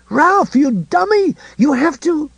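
high, slow frantic yell; urgent shout. A narrator's reading. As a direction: yell at him to hurry. Lois screaming at Ralph.

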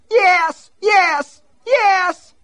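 high, loud frightened cries; pained cries. Acted. Myrtle cries out to Danforth while he drags her, high pained yelps. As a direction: yelp in pain and fear.

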